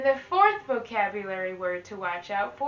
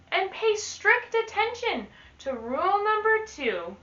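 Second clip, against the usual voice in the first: put-on lively read-aloud to children; teacher reading a rhyming book to the class; storybook reading.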